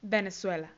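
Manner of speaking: "Venezuela" said the English way, in careful syllables; English pronunciation. Shown as a demonstration. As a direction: model "Venezuela" for learners, falling. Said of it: "se dice Venezuela". ("Venezuela" pronunciado en inglés, con cuidado)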